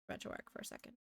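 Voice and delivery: whispered aside; whispering. Real, not acted. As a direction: whisper it under your breath. Unvoiced aside.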